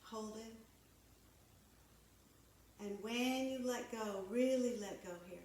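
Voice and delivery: calm, measured yoga-teacher delivery; guided yoga. Real, not acted. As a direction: guide them through breath and stretch, unhurried pauses between cues. Leads breathing and stretching.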